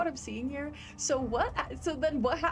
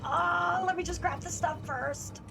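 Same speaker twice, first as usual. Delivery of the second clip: distressed, pitched-up pleading; feeling awful; 6 semitones higher than usual. Real, not acted. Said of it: "I feel so bad".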